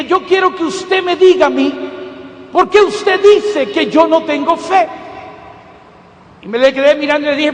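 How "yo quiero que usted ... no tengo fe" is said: annoyed demand. Retold or imitated. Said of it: "molesta ahora conmigo".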